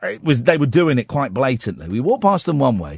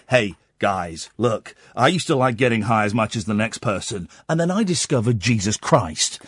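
lower, softer mock preachy voice; preachy Christian bloke; 5 semitones lower, 4 dB quieter than usual. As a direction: lightly play a born-again do-gooder. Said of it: "That's what it was like".

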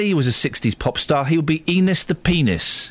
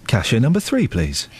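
announcer voice; 5 semitones lower than usual. Shown as a demonstration. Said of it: "Can you say".

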